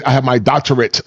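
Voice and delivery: "doctorate" hit in beats like a drum line; mock emphasis. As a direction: tap out "doctorate" syllable by syllable, mockingly. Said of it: "like they're in the drum line".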